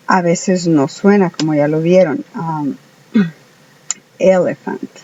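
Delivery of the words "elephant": elephant with open E's; English word elephant. Shown as a demonstration. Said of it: "se pronuncia". ("elephant" con las E audibles)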